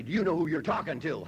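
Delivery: lightly voiced, self-important challenge; proud comeback. Drunk husband challenges his wife, mock self-important. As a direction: puff up and throw the question back at her. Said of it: "Boy, that used to get her right there".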